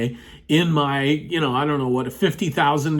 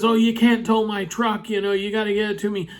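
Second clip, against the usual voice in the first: protesting truck owner; 6 semitones higher than usual. Retold or imitated.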